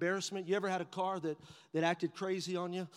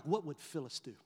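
quiet wondering; 6 semitones lower, 5 dB quieter than usual. Retold or imitated. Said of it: "I'm like".

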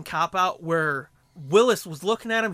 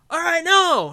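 high mock resignation; 11 semitones higher, 9 dB louder, slower than usual. Kato giving up.

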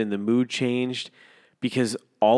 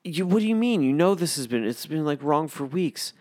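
higher, louder incredulous reply; exasperated boss; 7 semitones higher, 4 dB louder than usual. Retold or imitated. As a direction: sound like the answer should be obvious. Voicing Matt's exasperated reply.

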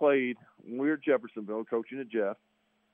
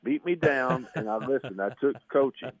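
hoarse voice; 2 semitones higher than usual. Real, not acted. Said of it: "I got this whiskey tenor, nasaled out voice".

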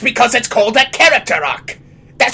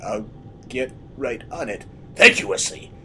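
Fisk impression; 3 semitones lower, 4 dB quieter than usual. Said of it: "That's why I sound like this".

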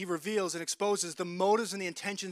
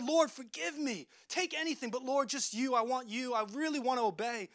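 pleading prayer; 5 semitones higher than usual. Acted. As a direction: beg God for forgiveness. David's prayer of repentance.

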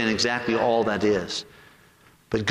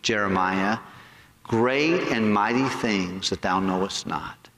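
solemn voice of God; 4 semitones lower than usual. Retold or imitated. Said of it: "He goes".

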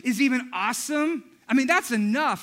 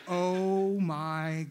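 stunned disbelief; 8 semitones lower, 6 dB quieter, much slower than usual. Retold or imitated. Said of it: "she goes".

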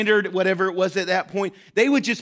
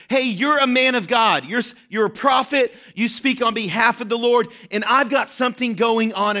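calling out to the prophet, raised voice; crying out; 2 semitones higher than usual. Acted. Widow crying out to the prophet, raised voice. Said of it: "She begins to cry out to him".

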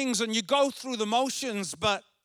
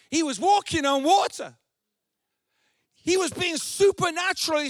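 preaching; 3 semitones higher than usual. Acted. Pastor drives home the power of doubt, preaching hard. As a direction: preach it with building force.

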